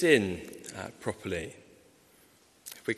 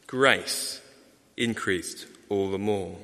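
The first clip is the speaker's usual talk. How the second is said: slow scripture reading; much slower than usual. Shown as a demonstration. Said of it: "we see Paul writes".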